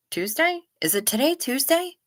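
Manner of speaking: genuinely unsure what day it is; puzzled question. Real, not acted.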